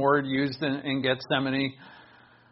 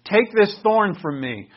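higher, louder pleading prayer; Paul's plea; 5 semitones higher, 5 dB louder, slower than usual. Retold or imitated. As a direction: cry out to the Lord for relief. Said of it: "he says".

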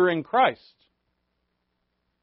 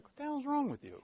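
baffled coworkers; 12 semitones higher, 7 dB quieter than usual. Retold or imitated. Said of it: "people are like".

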